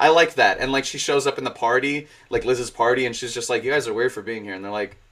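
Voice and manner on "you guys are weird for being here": mock sarcastic deadpan, faster pace. Describing a character showing up at Liz's party, imitating her deadpan sarcasm. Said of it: "she's just like really like sarcastic and really like deadpan".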